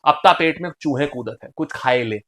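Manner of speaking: deliberate Bundeli demo; Bundeli dialect. Shown as a demonstration. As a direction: say it with a Bundeli turn. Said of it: "This is all Bundeli भाषा". (बुंदेली लहजे में)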